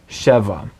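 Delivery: "sheva" with the accent on "she"; first-syllable stress. Shown as a demonstration. Teacher points out the accent to learners, "sheva" stressed on "she". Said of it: "Notice the accent on the first syllable".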